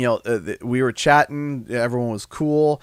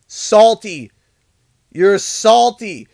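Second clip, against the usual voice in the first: teasing jab; 7 semitones higher, 7 dB louder, much slower than usual. Real, not acted. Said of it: "names latecomers salty".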